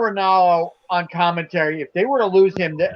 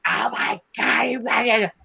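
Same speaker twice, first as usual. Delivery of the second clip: excited announcer; 4 semitones higher than usual. Retold or imitated. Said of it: "he goes".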